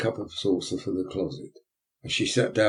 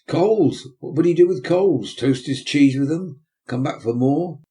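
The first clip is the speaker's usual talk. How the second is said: higher, louder scoffing disbelief; mock the pauper's request; scornful beadle; 6 semitones higher, 6 dB louder than usual. Beadle to matron about paupers, higher scornful scoffing.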